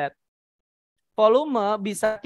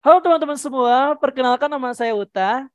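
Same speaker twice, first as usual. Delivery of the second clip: lopsided pitch drop; 3 semitones higher than usual. Shown as a demonstration. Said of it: "Jangan sampai nada sebelumnya terlalu tinggi".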